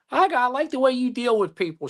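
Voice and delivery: put-on high, squeaky old lady voice; imitating the old lawyer. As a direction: pitch it up like the cartoon teacher. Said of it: "Jimmy Neutron's teacher".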